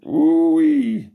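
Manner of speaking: shrieked way up high and loud; hammed-up squeal of disgust; mock shocked ooh-wee. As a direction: yelp it like the smell punched you. Mock reaction to a smell.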